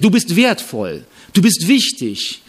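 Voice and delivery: lightly mocking soothing praise; mock flattering affirmation. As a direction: coo it like a flattering devotional.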